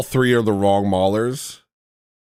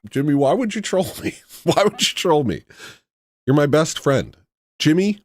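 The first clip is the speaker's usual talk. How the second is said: higher, pleading mock whine; playful whining at his trolling friend Jimmy; 6 semitones higher than usual. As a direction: whine at him like a betrayed friend.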